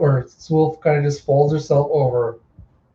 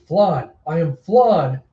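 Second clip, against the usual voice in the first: entranced echo; 2 semitones higher, slower than usual. Acted. Hypnotized character echoes her transformation.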